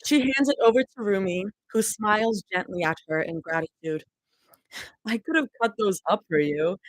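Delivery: reading a story aloud; story narration. Acted. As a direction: read it like a novel.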